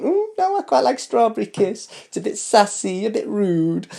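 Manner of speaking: mock a cheeky fan who likes it rude; imitating a sassy viewer. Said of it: "there's a few of you going".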